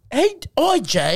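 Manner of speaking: high mock call to Jay. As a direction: shout up at him like across a street. Calling out to Jay.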